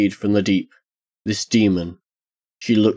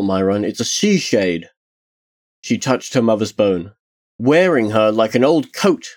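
higher-pitched, mildly heated accusation; a touch of alarmed insistence; understated thundering; 4 semitones higher than usual. Acted. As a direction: press the accusation with restrained anger. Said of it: "Tarsia thundered".

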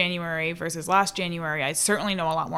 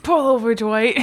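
shouting cop; 5 semitones higher, 6 dB louder than usual. Retold or imitated. Acting the cop's megaphone line.

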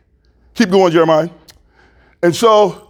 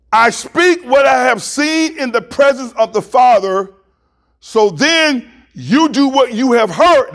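raised, measured scripture reading; deliberate reading; 5 semitones higher than usual. Real, not acted. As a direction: read the verse out with higher pitch. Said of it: "I wanna read this slowly".

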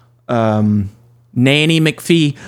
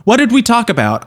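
higher-pitched, lightly voiced scolding old man; 9 semitones higher, faster than usual. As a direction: ask it like a hint of a nagging old man. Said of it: "You slipped into old man".

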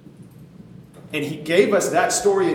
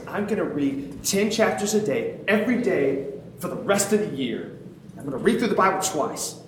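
higher-pitched eager vow, mildly acted; fired up; 3 semitones higher than usual. Telling himself his new reading plan, mildly fired up. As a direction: retell an overkeen resolution. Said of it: "I would get super fired up".

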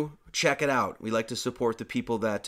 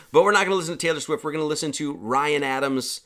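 playful reversal; 3 semitones higher, 5 dB louder than usual. Real, not acted. Teasing reversal to audience.

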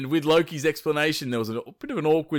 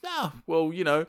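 nonchalant; 2 semitones higher than usual. Acted. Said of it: "Loki quite nonchalantly replies".

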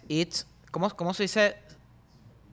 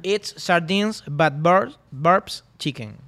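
English said slowly, a little louder; slow English motto; 5 dB louder, much slower than usual. Shown as a demonstration. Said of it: "la dejé de última".

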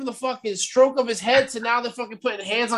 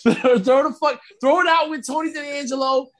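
emphatic shout; 4 semitones higher than usual. Real, not acted. Venting about a bad storyline.

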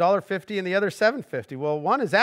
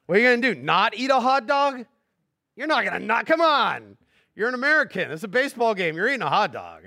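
comic rant; 5 semitones higher than usual. Acted.

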